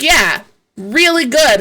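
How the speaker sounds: slow, flat sarcasm on really good; sarcastic echo. Retold or imitated. To the nurse, slow sarcastic echo. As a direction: drag it out with disbelief. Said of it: "And I was like".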